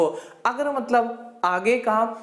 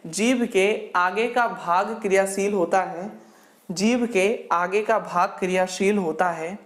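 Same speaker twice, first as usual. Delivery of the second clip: dictating notes; 2 semitones lower than usual. Acted. Dictates a definition to write.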